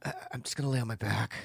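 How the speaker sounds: soft, hushed half-whisper; retold whisper. Retelling pillow talk to his partner, hushed half-whisper. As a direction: murmur it as if into her ear. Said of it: "I just whispered in her ear".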